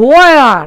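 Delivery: "where" with a light h before the w; where with slight h. Shown as a demonstration. Teacher shows the native way, "where" with a touch of h. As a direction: begin "where" as "hwe-a", drawn out. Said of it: "এইসের উচ্চারণ করে".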